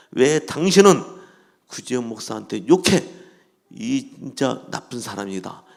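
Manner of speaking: acted indignant rebuke; retold scolding. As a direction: scold him on someone else's behalf, easing off. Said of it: "막 뭐라 그러는 거예요".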